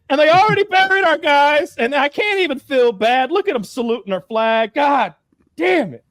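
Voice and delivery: high, loud, drawn-out exasperated outburst; outraged yelling. Retold or imitated. Russians learning who buried their crew, acted-out outrage. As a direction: yell it in mock outrage, pitch way up.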